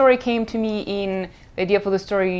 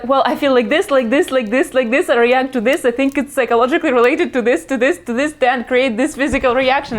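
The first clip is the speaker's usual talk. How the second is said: explaining to mom; 4 semitones higher, 3 dB louder than usual. Retold or imitated. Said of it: "And I have to say".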